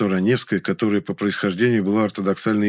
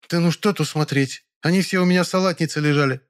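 put-on sharp, higher-pitched old woman; sharp old actress; 8 semitones higher than usual. Ranevskaya snaps at the young man about her medals, sharp. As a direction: snap back like an irritated actress. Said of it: "резко ответила Раневская".

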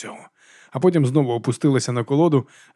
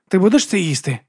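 Vigga asking; 7 semitones higher, 4 dB louder than usual. Acted. Vigga asks Alex for food.

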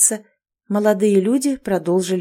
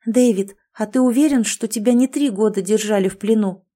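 anxious, careful; 2 semitones higher than usual. Acted. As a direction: ask gently but worried. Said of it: "осторожно спросила девушка тревожным голосом".

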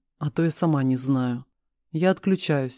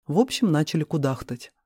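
usual speaking voice

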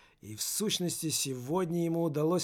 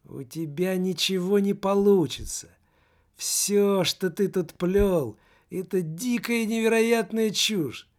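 lightly voiced mocking soul, a bit louder; scornful soul; 2 semitones higher, 6 dB louder than usual. The soul mocks the teenager, lightly voiced scorn. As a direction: scoff at the boy as the soul, mildly raised.

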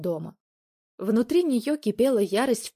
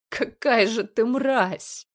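slow, louder, bitter through tears; tearful insult; 4 semitones higher, 5 dB louder, much slower than usual. Acted. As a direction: drag out the words in disgust. Crying girlfriend insults him.

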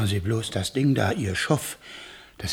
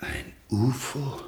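stunned disbelief; much slower than usual. Acted. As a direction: let it sink in slowly, dumbfounded. Neighbour stunned realising.

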